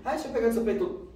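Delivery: put-on high, fast boyish nagging; teenage boy repeating himself quickly; pushy boy, insisting. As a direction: rattle it off like a pestering kid.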